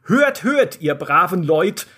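solemn, ceremonious herald's call; herald proclamation. Acted. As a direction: proclaim it to the court. Herald opens the council. (feierlicher Herold)

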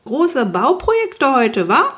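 high, drawn-out neighbourly holler; calling over fence. A narrator's reading. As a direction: call across as the nosy neighbour. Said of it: "rief der Nachbar über den Zaun".

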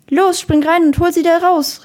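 loud, high, urgent command; shouted order. A narrator's reading. Lifeguard sends Adil in after Katinka, shouted order. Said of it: "rief das Walross Adil zu".

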